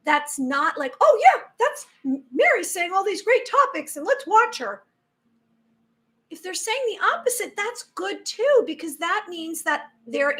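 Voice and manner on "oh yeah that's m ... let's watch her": high, bright fan voice; enthusiastic fan. Retold or imitated. Fan praising her videos, gushing. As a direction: gush like an eager viewer. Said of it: "If someone's saying something".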